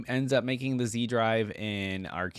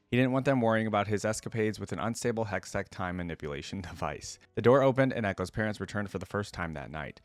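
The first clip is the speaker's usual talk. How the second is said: steady, even storytelling read; measured narrator voice reading the tale; story narration; faster than usual. Acted. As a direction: read the lore like an audiobook. Reads lore story aloud.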